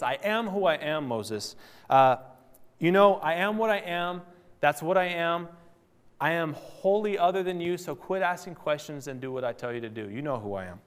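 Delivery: mild imitation of God putting Moses in his place; reiterating otherness. Preacher voicing God setting Moses straight, reiterating otherness. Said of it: "God was just reiterating his otherness".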